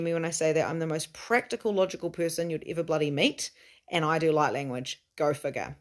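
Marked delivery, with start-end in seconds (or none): 5.2-5.8 wry whisper; whispered aside. Real, not acted. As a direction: toss it off under your breath.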